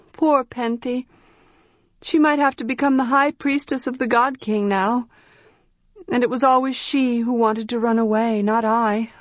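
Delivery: a hint of a worried girl; anxious girl. Tenar frets about her friend.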